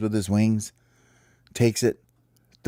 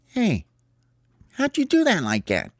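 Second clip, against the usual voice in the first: much higher, astonished little bird; amazed high chirp; 12 semitones higher than usual. Acted. Sparrow asks Hope how he made the shot, amazed. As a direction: gasp it out in wonder.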